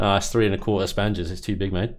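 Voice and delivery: put-on light joking Australian accent. Streamer joking with the dev about ship sizes, light mock Australian accent. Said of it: "don't know why I went Australian".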